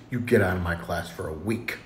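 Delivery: low, quiet acted dismissal; restrained teacher. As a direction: send the kid out, voice held down. Teacher's first, milder punishment.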